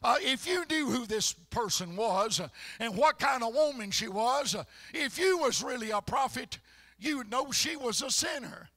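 Pharisee. Retold or imitated. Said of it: "even the Pharisee, uh, said".

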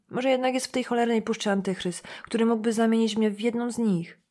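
ordinary delivery

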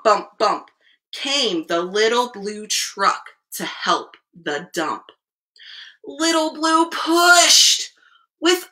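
expressive storyteller with stretched key words; picture-book reading. A narrator's reading. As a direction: read the rhyme aloud to small children. Reads picture book to children.

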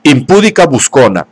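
a jealous lover yelling insults; angry shout. Acted. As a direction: hurl the insults at her. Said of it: "gritó".

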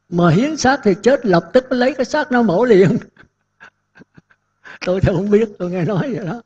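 mildly voiced worried lay followers asking; anxious caller's plea. Followers phoning the nun, pleading worriedly about donating bodies. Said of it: "điện vào hỏi sư cô".

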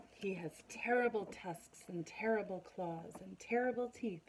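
dramatic storytelling mouse; mouse spinning a tale. Acted. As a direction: mouse scaring the fox, spooky. Mouse describes monster.

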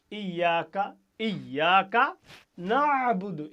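ইয়াকা ইয়াকা না'বুদু loud, with the আইন of না'বুদু squeezed from the throat; Arabic ain demo; pressed ain. Shown as a demonstration. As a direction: push the ain out hard. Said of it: "আইনটা চাপ হবে".

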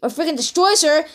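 animated rant, pitch lifted; real but mild outrage; worked-up raging. Real, not acted. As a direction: rant indignantly about what she did. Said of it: "I'm freaking raging right now".

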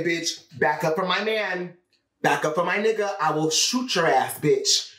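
acted-out threat to a rival, ending on a rising challenge; confrontational warning. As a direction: warn a rival off your man. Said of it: "You gotta say it like that".

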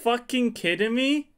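high-pitched, incredulous outrage; really pissed off. Real, not acted. Player raging at the new ban list, pissed off. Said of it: "I'm actually fucking pissed".

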